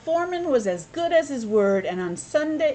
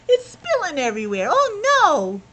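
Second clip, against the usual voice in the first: mock dismay; 7 semitones higher, 5 dB louder than usual. Marmalade spills, dismay.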